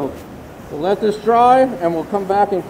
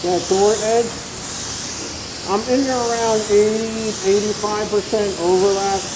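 muffled behind a respirator mask; through a respirator. Real, not acted. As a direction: talk through a paint respirator. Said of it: "I'm gonna talk to you guys through the respirator".

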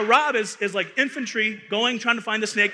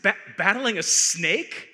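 slow, disbelieving question rising at the end; incredulous echo; slower than usual. Retold or imitated. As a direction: repeat it like you can't believe it.

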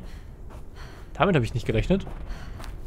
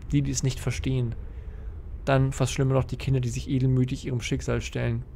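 solemn diary reading. Acted. Player reads Erik's diary note aloud, solemn reading. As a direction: read it like a guilt-ridden father's confession.

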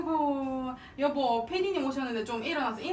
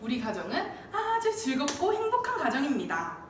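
announcer voice; 3 semitones lower than usual. Acted. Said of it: "아나운서 지망생 아니었겠어요?".

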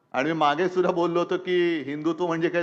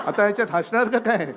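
laughing; 5 semitones higher than usual. Real, not acted. Speaker laughs at crowd's reaction.

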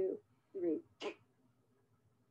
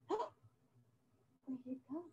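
mock amazement; 6 dB quieter, slower than usual. Gasps after the vanishing trick.

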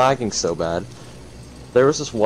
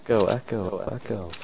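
toy echo microphone; 6 dB quieter than usual. Pretend. Mimicking an echo effect.

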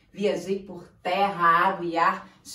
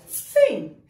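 ringmaster; 2 semitones higher than usual. Acted. Continues ringmaster announcement.

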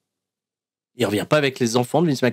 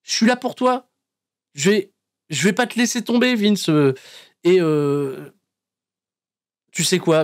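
higher, put-on comforting voice; mock heartfelt promise, pitched up; reassuring Austin; 4 semitones higher than usual. Austin reassuring a despairing McMahon, hammed up. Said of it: "il lui dit".

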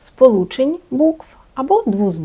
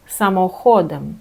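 самоходом with stress on HO; stress on second-last syllable. Shown as a demonstration. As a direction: say Polish sa-mo-HO-dem. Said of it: "знов зайняв свою позицію на другому складі". (наголос на передостанній склад: само-ХО-дем)

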